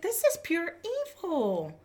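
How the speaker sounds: condemning it, voice lifted in shock; imitating her horrified verdict on the video; retold outrage. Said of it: "I said".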